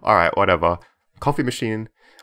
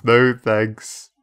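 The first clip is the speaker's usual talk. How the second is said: emphatic no thanks; 2 semitones higher, 7 dB louder than usual. Shown as a demonstration. Repeats the option emphatically.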